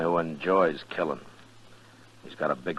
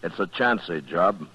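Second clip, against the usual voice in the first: opening narration. A narrator's reading. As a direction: set yourself up as the lawman, steady.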